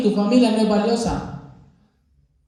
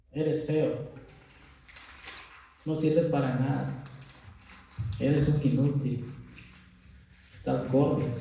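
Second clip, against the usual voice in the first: mock insults; 5 semitones lower, 9 dB quieter than usual. Shown as a demonstration. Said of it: "Le vamos a decir cosas malas".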